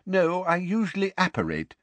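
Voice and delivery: lightly voiced Mr Weasley; middle-aged man voice.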